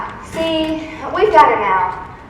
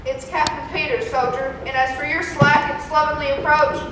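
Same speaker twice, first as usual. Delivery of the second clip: drill sergeant. Acted. Captain barking at soldiers.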